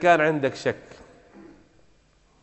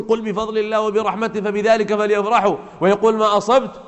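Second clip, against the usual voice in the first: higher-pitched retelling in mild disbelief; puzzled echo; 5 semitones higher than usual. Retold or imitated. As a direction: repeat the exchange as if baffled by it. Preacher echoes exchange in disbelief.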